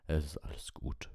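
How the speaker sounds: whispered comfort to an animal; hushed whisper. A narrator's reading. Hagrid whispers to Buckbeak to calm him. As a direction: breathe it softly to calm him. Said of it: "sagte Hagrid leise".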